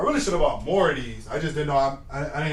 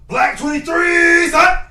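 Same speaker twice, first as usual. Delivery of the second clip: high, loud, slow drawn-out snap count; own cadence shout; 9 dB louder, much slower than usual. Pretend. Player calling his own cadence, high drawn-out shout. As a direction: stretch the number high, then punch the last word. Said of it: "I'm finna do my own cadence".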